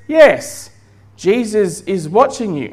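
lightly voiced parrot, starting high; talking parrot. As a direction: answer as the parrot, high on the first word. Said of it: "And the parrot says".

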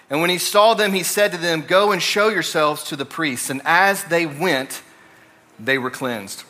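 measured reading of a Bible passage; scripture reading. Acted. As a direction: read the passage aloud to the congregation.

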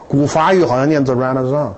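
put-on Renaissance said the Old French way, ra-na-san; Old French pronunciation. Shown as a demonstration. Lecturer showing the class the Old French way, Renaissance in French style.

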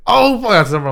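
high-pitched retold astonishment; reenacting stunned delight; amazed reaction. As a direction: voice leaps up at a happy shock. Retells reaction to deposit arriving.

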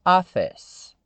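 "Office" as two syllables, an open a sound first, no final vowel; careful English "Office", two syllables; English pronunciation. Shown as a demonstration. Teacher to learners, modelling the two-syllable "Office". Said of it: "A segunda palavra que compõe a expressão é office".

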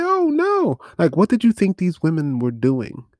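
a hammed-up oh no; mock surprised. Imitating a character baffled he missed the obvious, mock surprise.

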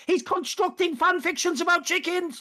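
high, scandalised mock disbelief; hammed-up shock, pitched well up; mock outrage. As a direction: gasp it like a shocked onlooker. Players mocking his chicken joke.

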